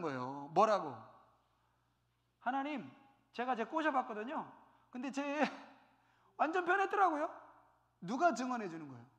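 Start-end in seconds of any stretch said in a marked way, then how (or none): 2.4-7.3 sheepish testimony. Retold or imitated. Mocker testifying before God.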